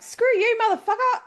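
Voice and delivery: sudden high furious shout; angry yell. Pretend. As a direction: yell it right back at him. Imagined reply to groomsman's news.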